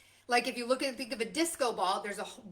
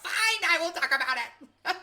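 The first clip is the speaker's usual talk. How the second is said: laughing; 6 semitones higher, 4 dB louder than usual. Real, not acted. Gives in to God, laughing.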